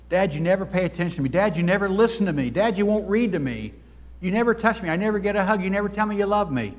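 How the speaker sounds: put-on high, loud, building child's complaint; pleading child. Child complaining to an inattentive father, high and pleading. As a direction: cry out like a hurt kid begging for his dad. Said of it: "It's like".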